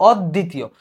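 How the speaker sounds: অদ্বিতীয় as "ɔd-ditiyo", with two d sounds; doubled d. Shown as a demonstration. Teacher modelling the middle cluster, doubled d. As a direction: hold the d in অদ্বিতীয়, no b. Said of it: "তোমার দটা দুইবার যাবে".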